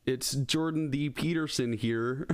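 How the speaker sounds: Kermit-ass voice. Pretend. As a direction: drawl it like Kermit the Frog. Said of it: "with his Kermit-ass voice".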